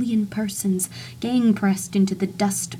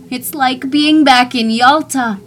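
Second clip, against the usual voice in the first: much louder, higher joyful shout; 5 semitones higher, 9 dB louder than usual. Acted. Narrator shouts his delight to the street. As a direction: cry it out in delight. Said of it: "I shouted".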